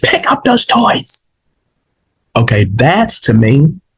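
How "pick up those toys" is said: very high-pitched raised voice, short of yelling. Showing how to tell kids to pick up toys: raised voice. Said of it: "that's raising your voice of how I was just doing it".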